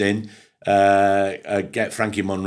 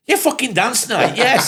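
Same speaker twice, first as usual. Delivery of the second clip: sarcastic mockery; 4 dB louder, slower than usual. Mocking the DJ's dance night.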